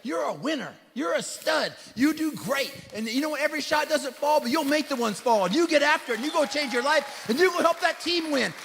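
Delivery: building encouragement, rising in pitch and force; rousing pep talk. Retold or imitated. Dad pumping up his daughter after a game, rousing. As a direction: fire up a discouraged kid.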